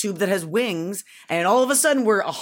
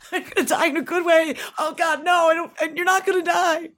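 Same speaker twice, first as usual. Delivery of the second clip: laughing reassurance; 10 semitones higher than usual. Retold or imitated. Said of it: "And I was like".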